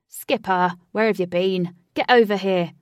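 loud shout across room; calling out loud. A narrator's reading. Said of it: "she heard a loud roar".

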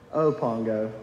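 low, tired repeat of the name; defeated sigh. Retold or imitated. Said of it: "with such a defeated tone".

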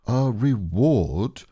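hammed-up loud correction; mock loud. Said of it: "said Owl very loudly".

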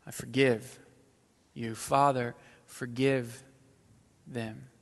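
hushed and gentle, fading away. Acted. Pastor voicing Jesus on the cross, hushed and tender.

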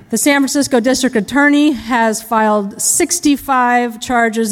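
defense lawyer impression. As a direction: address the jury like a showy defense attorney. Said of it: "impression of a criminal defense lawyer".

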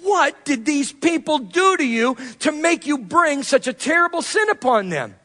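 mildly heated, emphatic demand; a touch of indignant accusation; angry demand. Acted. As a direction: demand an answer, lightly acting out anger. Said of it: "turned to Aaron and demanded".

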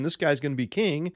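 a hint of panicking Saul; freaked-out Saul. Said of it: "Saul's freaking out, saying".

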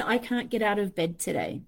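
mock defeat. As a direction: sink into it. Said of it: "swing us like whiplash between".

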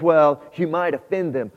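a small timid nagging voice; wimpy little voice. Acted. Inner voice whispering doubt to the believer, small and wimpy. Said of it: "This wimpy, little, small voice says".

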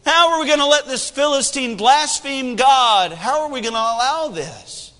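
earnest, rising defiance; David's bold reply. Acted. Young David rallying the soldiers, indignant. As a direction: demand it of the whole army. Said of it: "and says".

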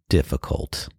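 whispered, trailing off. Real, not acted. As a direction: drop it to a tired whisper. Repeated word fading away.

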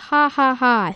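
deliberate fake "ha ha ha"; mock laughing. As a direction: act out a taunting laugh, evenly spaced. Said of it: "Squidward and Mister Krabs laugh".

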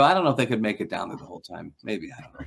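dropping low and soft, playing dumb; mock-innocent mumble fading out; feigned innocence.

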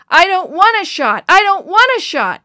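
high, very loud repeated shriek. A narrator's reading. Boy shrieking while counselors hold him down. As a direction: scream it over and over in panic. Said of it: "he shrieked again and again".

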